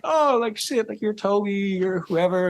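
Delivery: starstruck excitement. Retold or imitated. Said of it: "I'm, like, saying".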